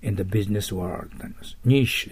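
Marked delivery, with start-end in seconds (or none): 1.7-2.1 British-style "ニッシュ"; British pronunciation. Shown as a demonstration. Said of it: "イギリスの発音で". (イギリス式の発音)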